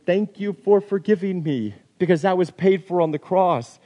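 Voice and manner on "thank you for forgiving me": earnest thanks, pitched high without extra force; grateful prayer. Acted. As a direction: offer it upward in gratitude. Acted thanks for forgiveness.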